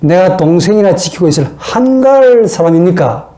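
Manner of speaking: mock indignant comeback, stressing 한가할; defiant retort. Cain answering God, in a livelier defiant retort. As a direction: talk back with some added attitude. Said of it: "말씨 좀 분위기를 살려가지고 이렇게 표현하면".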